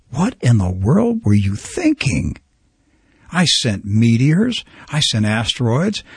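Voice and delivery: slow, drawn-out mock scolding; imagined exasperated Lord, lightly acted; incredulous reproach. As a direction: play God asking in disbelief, stretching the words. God reproaching people after returning.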